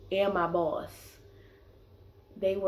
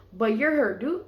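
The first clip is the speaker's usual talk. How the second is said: incredulous retort; 4 semitones higher, 5 dB louder than usual. Retold or imitated. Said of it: "I didn't say that".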